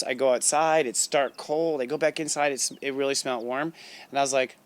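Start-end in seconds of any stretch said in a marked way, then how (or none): none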